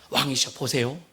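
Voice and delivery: measured, persuasive adviser; low, soft address to a king, inviting him to look; Hushai. Acted. Hushai winning over the king, low and measured. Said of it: "그 지금 후세는요".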